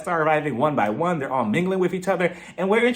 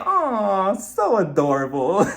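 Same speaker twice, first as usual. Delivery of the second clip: cooing; 3 semitones higher, much slower than usual. Retold or imitated. Cooing over the child.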